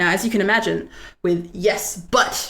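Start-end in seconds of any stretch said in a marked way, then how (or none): 1.5-2.5 heavy, hard stress on "but". Explaining yes-anding versus yes, but: strong emphasis on but. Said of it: "now I'm putting emphasis on that but there".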